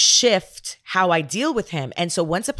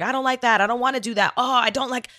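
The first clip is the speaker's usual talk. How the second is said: put-on a higher, whiny sulking child; lightly mock her son's grumbling; whiny kid imitation; 5 semitones higher than usual. Mom mimicking her son's attitude, mildly whiny.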